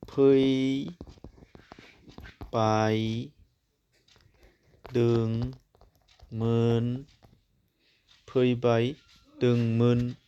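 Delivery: each syllable spaced out, with long pauses between. Shown as a demonstration. Teacher sounding out a word for students, slow and syllabified. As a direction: break फैबायदोंमोन into फै, बाय, दों, मोन, then join the parts. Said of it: "नै बाव खोथा जाखो नै".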